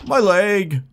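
high-pitched cartoon cry of pain; SpongeBob quote. Player quoting SpongeBob after a crash, cartoon wail. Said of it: "that's a SpongeBob quote".

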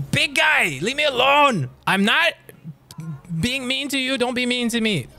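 high-pitched plea to be left alone; exasperated high whine; whiny pleading. Real, not acted. Pleading with game enemy.

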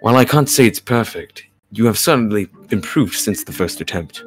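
measured, composed character reading; careful, articulated story-reading delivery; game dialogue read-aloud. Acted. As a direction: voice the lines as a patient mentor. Reads game character's lines.

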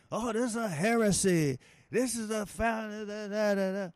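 preacher mimicking evangelicals offended by the Olympic ceremony; mocking outraged evangelicals. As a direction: parody the pious complainers clutching pearls. Mocking religious critics of ceremony.

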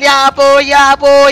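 loud call for father; child calling his father for help; calling dad. Acted. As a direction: yell for dad across the house.

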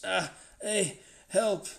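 loud, high yells for help; frantic shouting; panicked cries. A narrator's reading. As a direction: call out in alarm, each word a burst. Stung man cries for help.

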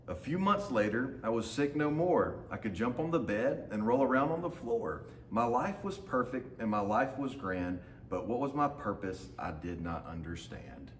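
lively storybook reading in the dog's voice; reading to children. A narrator's reading. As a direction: read it like a picture book for a class. Teacher reads picture book aloud.

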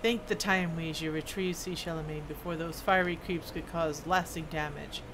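lightly voiced dwarf smith, matter-of-fact; a hint of a kindly craftsman handing over work; dwarf smith character.

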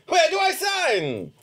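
eager hero. Acted. A hero to the devil, ready to sign, booming and eager. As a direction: boom out the question like a fearless hero.

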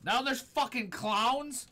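slow, high, disbelieving question; aghast at the clowns. Real, not acted. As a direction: stretch it out in disbelief. Scared by clown.

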